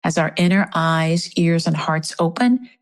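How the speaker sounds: spoken prayer in an even, measured voice; prayer out loud. Real, not acted. Circle leader praying for Minneapolis and Saint Paul, spoken prayer. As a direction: offer thanks and petition aloud. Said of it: "I am gonna say my prayer out loud".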